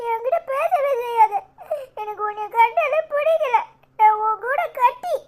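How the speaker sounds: acted playground sulk; sulky anger. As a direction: cut a friend off in a childish huff. Child breaks off friendship in quarrel.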